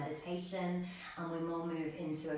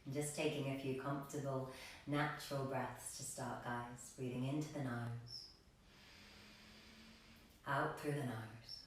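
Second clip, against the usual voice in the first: calm, slightly lowered meditation voice; guided meditation; 3 semitones lower, 5 dB quieter than usual. Real, not acted. Yoga teacher settling a class into breathing, calm meditation voice. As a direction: guide them gently into the breath, with long pauses.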